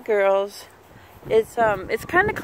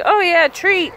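voicing the dog; 9 semitones higher, 8 dB louder than usual. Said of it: "He's like".

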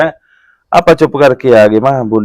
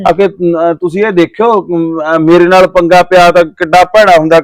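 mildly mimicked threat; a touch of mock swagger; imitated needling boast; 3 semitones higher than usual. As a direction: quote his taunt, voice a bit lifted. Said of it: "ਲਾ ਲਾ ਕੇ ਗੱਲਾਂ ਕਰੇ".

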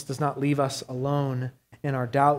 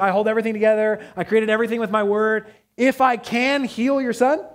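loud and raised, quick at first, then slowing to a high final question; bold declaration; 5 semitones higher, 5 dB louder than usual. Retold or imitated. Jesus answering the doubting father with loud, towering certainty. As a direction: proclaim it as the creator of everything. Preacher voices Jesus as creator.

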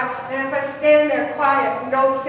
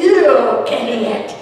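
louder, slow scolding; preacher imitating the rebuke God never gave; mock rebuke; 6 dB louder than usual. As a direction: scold him like a fed-up boss. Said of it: "ready to rebuke him and say".

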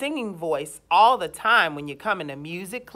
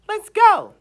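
excited cue; 11 semitones higher, 8 dB louder than usual. Real, not acted. Cueing class to start clapping.

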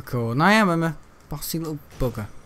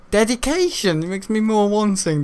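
pitched up high, squeaky; helium-high voice; 6 semitones higher than usual. Real, not acted. Streamer hears her own voice gone high, like on helium. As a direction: talk like you've sucked helium. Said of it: "listen to my voice, guys. It's a singer on helium".

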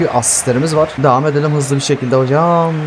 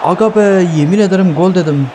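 frustrated cry; 5 semitones higher than usual. Real, not acted. Missed chance frustration.

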